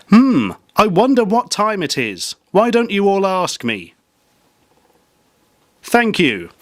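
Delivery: high, slow hammed-up voice; high silly voice. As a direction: pitch it up playfully. Playful mock presenter bit.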